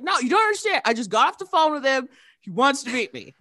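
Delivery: high, loud, urgent pleading; retold insistent kid. Child convincing doubtful mom, excited pleading.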